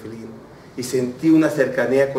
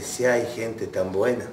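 tearful; 6 semitones lower, 8 dB quieter than usual. Retold or imitated. Taxi driver moved by the hasid's kindness, tearful. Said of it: "empezó a llorar".

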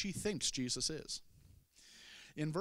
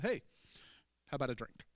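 laid-back modern offer of a drink; offhand, like asking a friend; casual Jesus paraphrase; faster than usual. Retold or imitated. Jesus casually offering the woman a drink, relaxed. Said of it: "He didn't say it quite like that".

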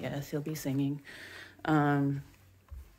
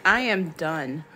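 dog's inner voice; 5 dB louder than usual. Pretend. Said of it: "He's like".

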